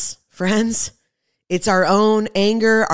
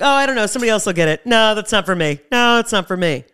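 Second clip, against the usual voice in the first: fast, breezy mock excuse; dismissive brush-off; 3 semitones higher, 3 dB louder, faster than usual. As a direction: rattle off the excuse like you couldn't care less. Mocking people ignoring the call.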